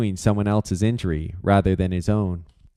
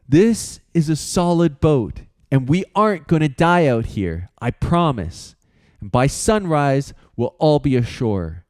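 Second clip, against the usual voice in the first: calmer voice; 5 semitones higher than usual. Acted. Aiden reassuring the frightened girls, calm. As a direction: promise them they'll be safe. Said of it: "Aiden continued in a calmer voice".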